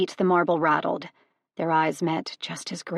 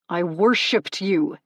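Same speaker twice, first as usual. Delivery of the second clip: louder, slow yell; 6 dB louder, slower than usual. Acted. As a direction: bellow it at her. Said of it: "he yelled".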